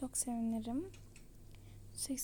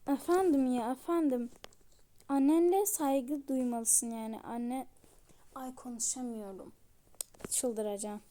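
louder, exasperated play-acted retort; irritated quarrel; 4 dB louder than usual. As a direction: answer back in a raised voice. Acted quarrel after being shouted at. (sinirli, yüksek sesli çıkış)

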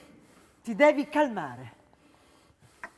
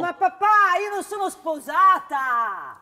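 higher, louder disbelieving protest; startled protest; 6 semitones higher, 4 dB louder than usual. Acted. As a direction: push back in alarmed surprise. Daughter shocked by father's claim.

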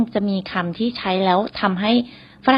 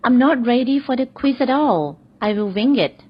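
very slow read, pitched higher; slow example sentence; 4 semitones higher, much slower than usual. Shown as a demonstration. Teacher models the quiz example slowly to learners. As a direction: stretch it out so students catch every word. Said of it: "หรือ".

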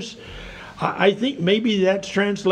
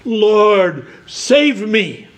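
firm, raised-voice plea; crying out; 2 semitones higher, 4 dB louder, much slower than usual. Acted. Preacher urging listeners to call on the Lord, crying out. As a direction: call out for help, a little louder. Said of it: "cry out today and say".

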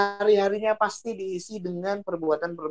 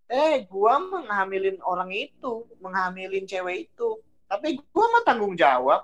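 boastful celebrity; 3 semitones higher than usual. Retold or imitated. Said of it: "Ada artis yang begitu".

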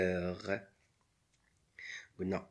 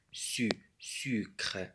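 whisper; 4 dB quieter than usual. Shown as a demonstration. Teacher models a syllable.

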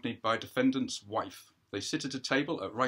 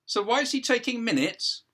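a higher, quicker wife voice; wife checking anxiously, pitched up; wife asking the judge if it is all confidential, higher; defendant's wife; 13 semitones higher, 8 dB louder than usual. Acted. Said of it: "Defendant's wife points".

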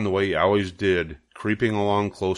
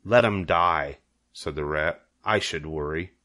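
a hint of a selfish rat; 3 semitones lower than usual. The rat refusing.

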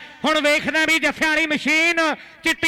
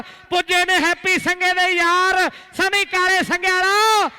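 frantic rural sports commentary. Real, not acted. Live play-by-play.

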